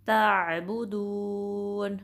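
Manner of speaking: ताबुदून recited slowly with a steady ain and no bounce; steady recitation. Shown as a demonstration. Teacher modelling ताबुदून correctly, slow and steady. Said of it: "आइन पे कलकला भी नहीं करना".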